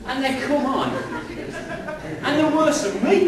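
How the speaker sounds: high, loud, laughing incredulously; cracking up at how bad they are; laughing disbelief. Real, not acted.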